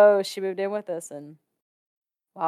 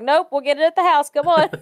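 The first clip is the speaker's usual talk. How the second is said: hurried urging; 8 semitones higher, 6 dB louder, faster than usual. Retold or imitated. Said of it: "I'm like".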